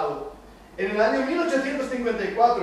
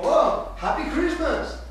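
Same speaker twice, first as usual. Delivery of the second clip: high, slow, sing-song holiday greeting; cheerful greeting; 8 semitones higher, 4 dB louder, slower than usual. Retold or imitated. Preacher mimicking his own festive greeting, high and sing-song. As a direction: chirp it like a festive wish at home. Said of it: "yo estoy en casa y digo".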